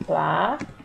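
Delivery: "Planetas" in three isolated pieces, PLA, NE, TAS; separated syllables. Shown as a demonstration. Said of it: "vou separar".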